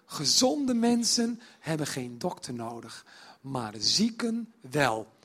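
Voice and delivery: slow and weighty, stressing zieken; slow solemn quote. Shown as a demonstration. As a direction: lay each word down slowly, "zieken" falling. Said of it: "Moet je je voorstellen dat je Matthäus bent". (langzaam en plechtig, nadruk op "zieken")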